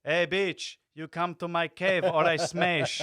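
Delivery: slow, loud brutish caveman. Pretend. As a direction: bark it like a caveman. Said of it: "they've got an Arabic accent".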